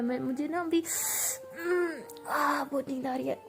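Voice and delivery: drowsy, stretched-out murmur; a sleepy girl mumbling in bed; sleepy drawl. Acted. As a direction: drag the words like you're half asleep. Drowsy girlfriend refusing to get up.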